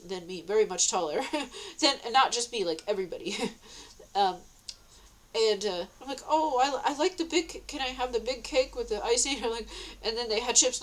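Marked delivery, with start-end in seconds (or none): 6.3-9.4 happy, nice asking. Retold or imitated. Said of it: "And I'm, like, happy".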